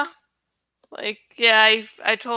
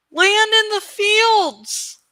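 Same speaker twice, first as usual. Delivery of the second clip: slow, higher shouted call over wind; yelled; 9 semitones higher, 3 dB louder, slower than usual. Acted. Rider shouting to his dragon mid-dive, a raised yell. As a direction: call out over rushing air. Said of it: "He yelled over the screaming air".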